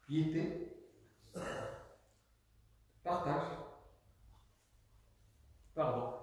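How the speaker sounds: each word detached, long pauses; staccato. Shown as a demonstration. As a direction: drill the words one by one. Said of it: "Je parle en saccadé exprès". (parole détachées, en saccadé)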